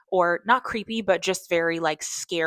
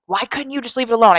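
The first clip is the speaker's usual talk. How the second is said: pleading friend; 6 semitones higher, 12 dB louder, faster than usual. Retold or imitated. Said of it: "Himesh is like".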